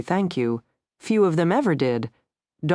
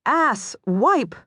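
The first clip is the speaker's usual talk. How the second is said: muttered insult; 9 semitones higher than usual. A narrator's reading. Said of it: "husband mutter".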